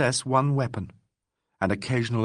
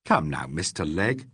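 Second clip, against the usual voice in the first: soothing; 5 semitones lower than usual. Acted. Soothing a frightened man.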